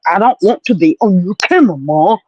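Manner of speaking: fast, put-on bratty dog voice; quick whiny voice for the pet; dog's voice. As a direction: voice the dog sulking. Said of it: "He's like".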